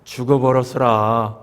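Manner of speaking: slow drawled Jeolla accent; Jeolla dialect. Shown as a demonstration. Preacher mimicking Jeolla folk for the congregation, slow Jeolla drawl. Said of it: "또 전라도는요?".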